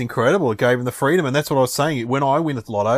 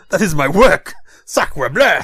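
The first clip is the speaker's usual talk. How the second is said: put-on French accent; 4 semitones higher, 7 dB louder, slower than usual. Monet voiced in a story.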